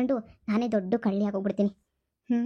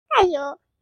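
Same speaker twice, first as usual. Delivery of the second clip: louder, higher delighted cry; gleeful exclamation; 4 semitones higher, 6 dB louder, slower than usual. Acted. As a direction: exclaim in glee. Mother-in-law gloating exclamation. (ಜೋರಾದ ಖುಷಿಯ ಉದ್ಗಾರ)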